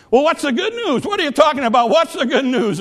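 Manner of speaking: high, insistent grouchy nurse; grouchy demand. Retold or imitated. Grouchy nurse questioning a sick little girl, grouchy demand.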